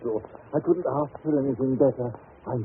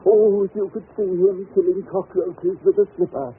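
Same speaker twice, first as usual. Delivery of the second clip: gushing excitement; 8 semitones higher, 6 dB louder than usual. Acted. Newcastle gushes about the child.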